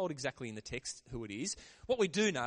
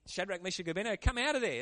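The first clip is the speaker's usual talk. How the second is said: calling out; 3 semitones higher, faster than usual. Retold or imitated. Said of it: "he calls them out".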